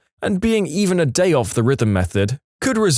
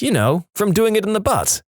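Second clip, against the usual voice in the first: put-on dim girl voice; 9 semitones higher than usual. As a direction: explain it like it's obvious.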